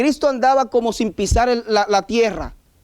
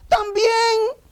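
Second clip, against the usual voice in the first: sarcastic also; 13 semitones higher than usual. Real, not acted. Sarcastic answer about Jesus' humanity.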